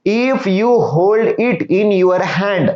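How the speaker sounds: each English word read slowly and clearly to pupils; slow reading of the story. Shown as a demonstration. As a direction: read the line word by word for the class. Teacher reads story text slowly. (मुलांना सावकाश वाचून दाखवणे)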